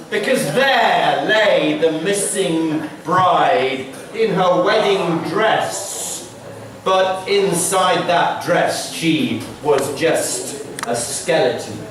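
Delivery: slow, hushed ghost-story telling; spooky story narration. A narrator's reading. Storyteller slowly reveals the skeleton bride to children.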